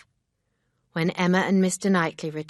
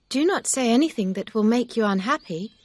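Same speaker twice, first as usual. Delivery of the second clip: Emma crying out higher and louder; urgent, raised plea to stop him; cried out; 6 semitones higher, 6 dB louder than usual. A narrator's reading. Emma stopping Mister Knightley before he speaks, a raised plea. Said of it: "Emma cried".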